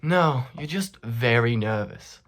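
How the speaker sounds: low, measured reassurance from a doctor; understated doctor's verdict; calm doctor. Retold or imitated. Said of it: "He, he didn't say it like that. He said".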